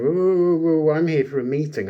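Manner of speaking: high, loud string of whoas, lightly acted; mock protest. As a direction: cut in to object, imitating a wrestler. Acted protest of Sami at interruption.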